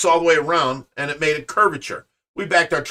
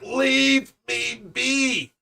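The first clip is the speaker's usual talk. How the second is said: slow, higher, drawn-out groan of pain; moaning in pain; 7 semitones higher, 5 dB quieter, much slower than usual. Retold or imitated. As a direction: stretch it out like you're hurt and want to be left alone. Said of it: "And I'm like".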